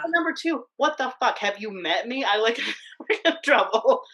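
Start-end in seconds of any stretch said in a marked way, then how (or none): 0.0-2.2 high, loud mock outrage; indignant outburst. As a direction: demand it, high and louder. Retelling her outburst at the teacher.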